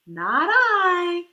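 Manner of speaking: a loud, blunt "no" from the duck; loud refusal. Acted. Duck refusing to help the little red hen, loud blunt refusal. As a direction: bark it out, flat refusal.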